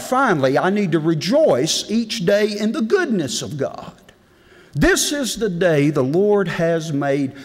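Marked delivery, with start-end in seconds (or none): 4.7-7.3 scripture recitation. Acted.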